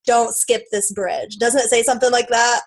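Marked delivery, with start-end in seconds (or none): 0.0-1.4 slow quote. Retold or imitated. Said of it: "I think it says something like".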